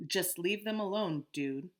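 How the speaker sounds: calm. Acted. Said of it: "Amos repeated calmly".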